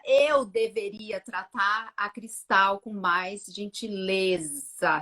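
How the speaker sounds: very slow, deliberate self-addressed sentence; dawning realisation. Retold or imitated. Mother turning the sentence on herself, slow and weighted. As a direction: draw each word out slowly. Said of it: "já comecei a chorar".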